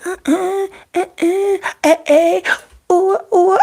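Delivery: high, giddy uh-uh sounds; playful delight. Retold or imitated. To the commenter, giddy and high. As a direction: tease like she loves it.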